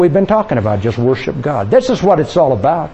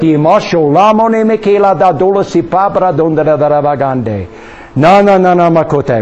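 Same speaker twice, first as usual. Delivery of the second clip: speaking in tongues. Real, not acted. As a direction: let the tongue run freely. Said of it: "go back to tongues".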